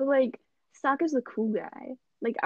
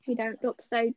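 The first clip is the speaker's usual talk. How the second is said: trial run of a Southern accent; 4 dB quieter than usual. Shown as a demonstration. Showing friends the character's voice, Southern accent. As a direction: start the taunt in a Southern accent. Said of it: "Doing a Southern accent".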